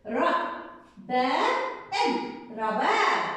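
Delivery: each syllable drawn out slowly, then رباب blended slowly; slow syllable reading. Shown as a demonstration. Teacher to pupils, slow drawn-out syllable blending. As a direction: sound out را، با، إب before saying رباب. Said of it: "زي ما بقرأ بحلل".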